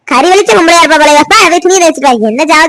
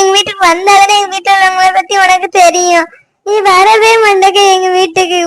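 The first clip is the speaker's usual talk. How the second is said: crying, pleading. Acted. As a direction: sob it out, begging him not to abandon her. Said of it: "நீ அது இல்லாம சும்மா இப்படி அழுதுகிட்டே". (அழுதுகொண்டே கெஞ்சும் குரல்)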